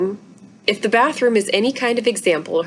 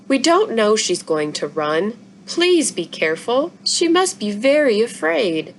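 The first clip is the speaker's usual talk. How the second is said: put-on pleading young girl; 3 semitones higher than usual. Izzy pleads with her father.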